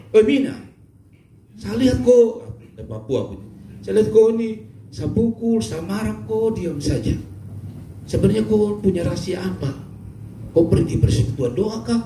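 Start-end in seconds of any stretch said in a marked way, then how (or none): 0.1-2.6 Papuan husband voice. Acted. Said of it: "dia tanya". 3.9-12.0 Papuan husband voice. Acted. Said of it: "dia tanya".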